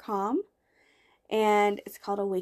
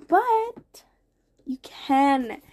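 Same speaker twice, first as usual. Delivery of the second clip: whisper; 3 semitones higher, 3 dB louder, much slower than usual. Real, not acted. Podcaster reassuring listeners, whispered confidingly. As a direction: lean in and whisper the encouragement.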